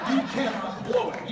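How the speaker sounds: high, loud, laughing declaration. Real, not acted. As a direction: proclaim it while cracking up. Laughing punchline to the audience.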